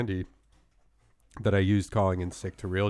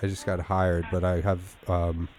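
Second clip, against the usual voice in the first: fake sick voice. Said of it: "my fake sick voice".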